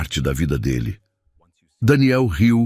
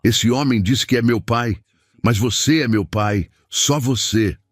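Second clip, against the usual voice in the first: sobbing; 5 semitones higher than usual. Acted. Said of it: "soluçando".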